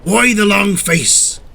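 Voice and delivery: slow, high character question; cheeky. A narrator's reading. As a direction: tease slowly in a lifted voice.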